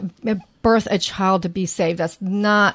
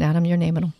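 ordinary talk

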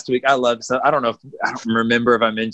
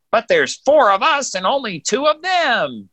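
higher, slower cartoonish droid; mock droid voice; 11 semitones higher, slower than usual. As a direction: voice the worried droid. Quoting droid from episode.

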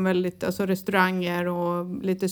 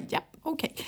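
muted acceptance; 6 semitones higher, 10 dB quieter than usual. Retold or imitated. Retells own stiff, muted reaction.

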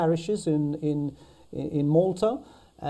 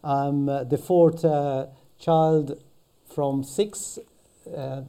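Maltese accent. Real, not acted. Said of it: "a Maltese accent".

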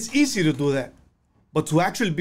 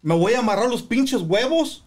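fired-up vow; 4 semitones higher than usual. Retold or imitated. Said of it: "I said".

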